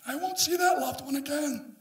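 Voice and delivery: high, soft, mournful; grieving mourner. Retold or imitated. Grieving family at a funeral, soft and sad. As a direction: mourn it softly.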